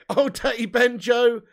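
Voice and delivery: loud, drawn-out hello to a viewer; hyped, slow call of a regular's name; excited greeting. Real, not acted. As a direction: stretch the name out with a big welcome. Greeting a chat member on stream.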